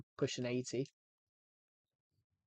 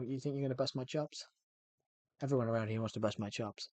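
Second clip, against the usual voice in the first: bad American accent; 4 dB quieter than usual. Streamer recreating a Taxi Driver scene, rough American accent. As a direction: have a shaky go at an American accent. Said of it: "my American accent was shit".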